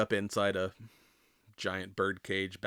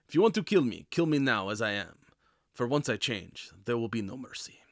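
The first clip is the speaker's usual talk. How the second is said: mock threatening plea. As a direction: play the doomed werewolf warning his captors. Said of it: "actually almost, like, threatening them".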